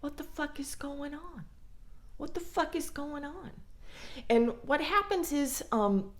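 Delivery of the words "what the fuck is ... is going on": higher and much softer; confused muttering. Retold or imitated. Partner baffled by mixed signals, softly higher. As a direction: mutter it in disbelief. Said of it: "And you're like".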